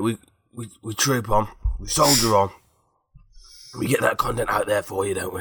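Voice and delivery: put-on a gravelly Sean Dyche accent, pushed from the throat. Podcast host rallying his co-host in a gravelly Sean Dyche accent. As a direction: growl it out like the Burnley manager, Sean Dyche accent. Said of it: "carry on with that accent? That sort of Sean Dyche accent".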